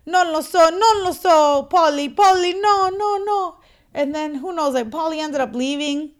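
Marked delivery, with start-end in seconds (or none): 0.1-3.6 high, loud frantic calling of a name; a flustered father begging, much higher and louder; panicked pleading. Retold or imitated. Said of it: "the poor dad ... he's like".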